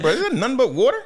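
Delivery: mock amazed question. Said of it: "I was like".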